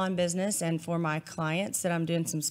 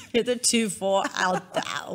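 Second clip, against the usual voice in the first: put-on English accent; slower than usual. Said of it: "now I'm trying to go back".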